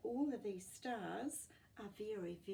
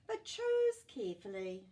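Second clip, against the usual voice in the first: warning; 4 semitones higher, 11 dB louder than usual. A narrator's reading. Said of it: "she warned".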